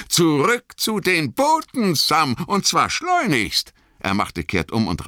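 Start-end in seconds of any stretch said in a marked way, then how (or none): 0.1-3.7 high, urgent call to himself. A narrator's reading. Sam spurs himself back to the boats, urgent. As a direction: snap into action, urgent and high.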